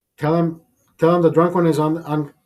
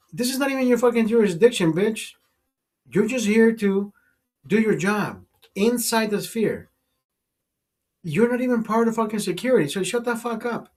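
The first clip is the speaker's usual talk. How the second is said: higher-pitched indignant retelling; retold telling-off; 6 semitones higher than usual. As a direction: act out scolding a cop.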